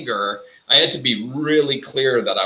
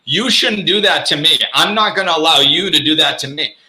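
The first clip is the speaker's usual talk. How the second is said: mock angry boundary; 3 semitones higher than usual. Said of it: "when I'm setting it out of anger or frustration".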